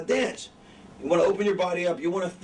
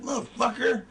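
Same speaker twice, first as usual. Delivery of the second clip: mock mad curse, slightly raised pitch; 4 semitones higher than usual. Shown as a demonstration. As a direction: demonstrate a mad face through the voice. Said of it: "If you're mad, you're like".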